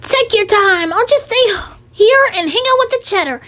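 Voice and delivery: high sly rat voice with a laugh; sneaky rat. Acted. Rat staying alone with the cheese, high sly voice.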